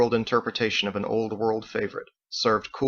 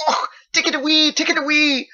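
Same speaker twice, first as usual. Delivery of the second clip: high, loud coughing-laugh pleading; disgusted laughing plea; 6 dB louder than usual. A narrator's reading. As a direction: push it away, laughing in disgust. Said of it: "She grimaced with her tongue out".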